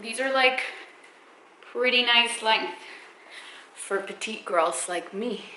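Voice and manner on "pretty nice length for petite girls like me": winded after squats; a little breathless; out of breath. Real, not acted. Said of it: "I'm out of breath".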